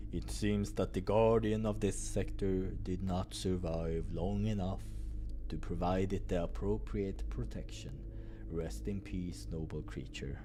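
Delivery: low solemn mourning. Acted. Boris mourns the serpent.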